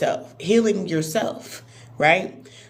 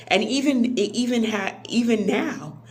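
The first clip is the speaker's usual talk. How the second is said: voice breaking; 4 semitones higher than usual. Real, not acted. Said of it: "my voice breaking".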